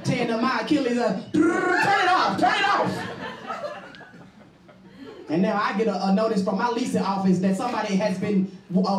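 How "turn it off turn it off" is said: high, slow pretend yell of "Turn it off"; panicked shout. Tall woman fighting the ceiling fan, high panicked shouting. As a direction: yelp at the ceiling fan to stop.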